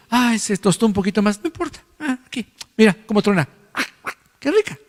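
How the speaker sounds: humble man. Retold or imitated. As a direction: shrug it off cheerfully. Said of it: "Una persona humilde dice".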